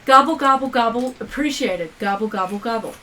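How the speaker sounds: loud mock gobbling gibberish; gobbling turkey voice. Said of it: "so it's like".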